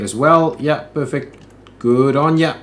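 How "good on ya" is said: put-on a light first go at an Aussie accent; tossed-off Aussie praise, only a hint of the accent; casual Aussie accent, barely put on; mock Aussie accent. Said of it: "the extent of my Aussie accent".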